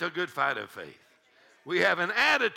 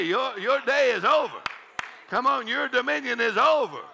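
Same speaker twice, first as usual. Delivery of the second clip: forceful, rhythmic rebuke; fervent pulpit declaration, building in force; commanding preaching; 6 semitones higher, 4 dB louder than usual. Real, not acted. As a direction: order an obstacle out of the way. Preaches, commanding mountain and giant.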